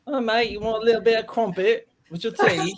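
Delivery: high-pitched, hammed-up British accent, pained; fake British accent. Shown as a demonstration. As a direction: put on a strained, high English character voice. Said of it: "when I do a fake British accent".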